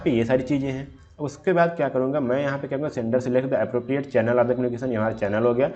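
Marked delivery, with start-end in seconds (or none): 3.0-4.9 reading the slide slowly and deliberately; slow, careful slide reading; slow read-aloud. Shown as a demonstration. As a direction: dictate each word of the definition.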